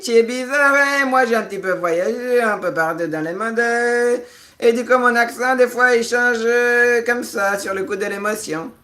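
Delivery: high-pitched put-on African accent. Vlogger explaining his accent changes with emotion, in an African accent. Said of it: "Il y a l'accent africain qui revient".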